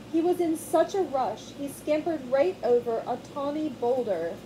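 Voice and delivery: put-on lively read-aloud to children; animated picture-book narration; storybook reading. A narrator's reading. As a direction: tell it to little ones with wide eyes.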